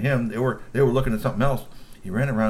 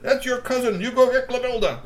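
high, loud command; barked order; 13 semitones higher, 5 dB louder than usual. Acted. Mister Glove commands soldiers, high and loud. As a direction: order them out.

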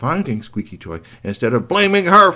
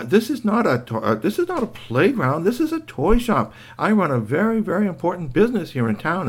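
lightly voiced, higher, huffy shopkeeper; prim indignant witch; 6 semitones higher than usual. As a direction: refuse primly, all offended. Shop witch refuses indignantly.

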